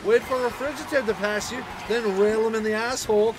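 sarcastic Scottish rant; mock-agreeable Scot, starting high; raging Scotsman. Real, not acted. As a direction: rant bitterly in a Scottish accent. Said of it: "my rage has turned me into a fucking Scotsman".

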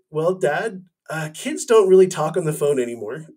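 lightly voiced daughter, laughing through it; amused daughter. Dad retelling his daughter's answer, with a laugh. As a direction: play the daughter chuckling at dad's question.

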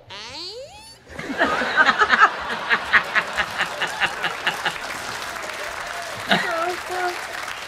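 high, drawn-out door creak. Acted. Comic mimicking a Scotsman like an opening door, long creak. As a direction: imitate a slowly opening door with the voice. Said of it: "the Scotsman who sounds like an opening door".

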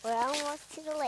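talking on a bumpy trail; bumpy walk. Real, not acted. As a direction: voice jolting while walking. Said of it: "it's really, um, bumpy".

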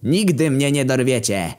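acted taunting yell; defiant shout. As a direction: shout back at the besiegers. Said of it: "Cejrondo we własnej osobie i krzyknął".

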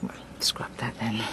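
soft, low, hushed retreat; sheepish and hushed; backing off. Acted. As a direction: drop it quietly. Backing down after her refusal.

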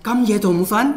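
sharp parental scolding; scolding mother. Retold or imitated. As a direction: snap at the kid for staying up. Mother scolds daughter late night.

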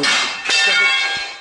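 slow, breathy whisper. Real, not acted. To his friend in the dark, slow frightened whisper. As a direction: whisper it so the ghost won't hear.

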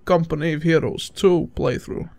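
put-on Russian accent on Company of Heroes two. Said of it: "worst Russian accent you'll ever hear".

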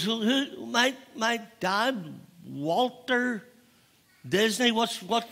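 lightly voiced confused little girl; bewildered child. Little Diane questioning her teacher about her dad, mildly bewildered.

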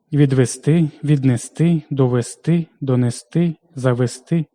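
відвести, віднести, довести, донести, завести stressed on final СТИ; stress on last syllable. Shown as a demonstration. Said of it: "наголошуємо на останньому складі". (наголос на СТИ: відвести, віднести, довести, донести, завести)

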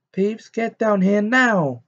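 high, loud, drawn-out command; barked order. A narrator's reading. Professor ordering the poltergeist down, angry bark. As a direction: bark it with full authority. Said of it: "barked Professor McGonagall".

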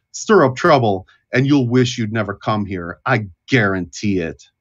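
formal welcome easing into stern warning; Cornelius the Gatekeeper. Acted. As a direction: announce yourself, then lay down the law. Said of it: "And he says".

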